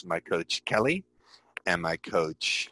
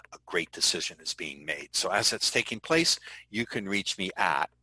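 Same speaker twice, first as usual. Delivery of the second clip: demo voicemail. Shown as a demonstration. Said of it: "I would say".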